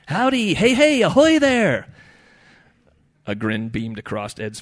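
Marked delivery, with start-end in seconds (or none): 0.1-1.9 high, loud shrimp hails; chorus of greetings. A narrator's reading. Shrimp greet Ed from the bucket, calling high. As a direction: call out like a bucketful of tiny critters. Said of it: "a chorus of greetings from the lot".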